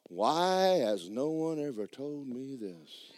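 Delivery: slow, drawn-out wondering; mock-astonished, every word drawn long; retold bewilderment. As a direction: stretch the question out in wonder. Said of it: "I'm like".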